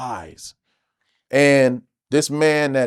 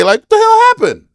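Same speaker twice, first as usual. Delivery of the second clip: amazed, raised voice; 8 dB louder than usual. Retold or imitated. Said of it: "you was a whole different beast today".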